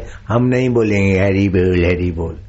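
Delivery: slurred mock-drunk refusal; नकली शराबी. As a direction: imitate a drunk slurring the chant. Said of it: "और ये पिए हुए बोलते हैं". (शराबी की नकल, लड़खड़ाती ज़ुबान में)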